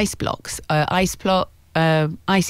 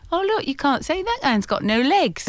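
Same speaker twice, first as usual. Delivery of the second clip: joking imitation of relatives; 8 semitones higher than usual. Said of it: "will say".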